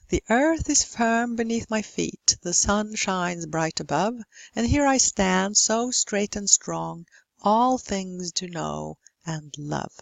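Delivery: measured verse, slowing over the last lines; practice rhyme recitation. Shown as a demonstration. Teacher reciting a little practice rhyme, measured recitation. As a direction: recite it line by line, stretching out the ending. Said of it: "practice in a little rhyme".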